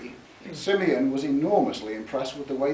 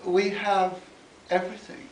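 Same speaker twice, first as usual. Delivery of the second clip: sarcastic posh drawl; 6 semitones higher than usual. A narrator's reading. Posh gentleman heading off a request, sarcastic drawn-out enunciation. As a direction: enunciate every word with aristocratic disdain. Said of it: "carefully enunciated with subtle sarcasm".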